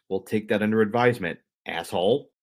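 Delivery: mildly snide, brisk retort; lightly acted passive-aggressive comeback. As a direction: imitate a touchy executive's quick put-down, jab on the last word. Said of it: "he's kinda passive aggressive about it".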